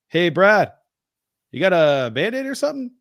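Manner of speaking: high-pitched imitation of a timid request; imitated timid father-in-law, pitched well up. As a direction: put on a high, sheepish asking voice. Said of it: "this timid voice".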